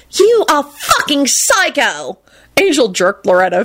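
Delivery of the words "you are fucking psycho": high, drawn-out outraged cry; horrified high-pitched accusation; screamed. A narrator's reading. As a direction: scream it slowly, reined in. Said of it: "Rosie screamed".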